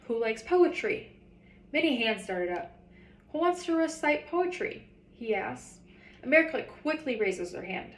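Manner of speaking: reading a picture book aloud to fourth graders; story reading. Acted. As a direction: tell the story to the class, lively and clear. Teacher reads the story aloud.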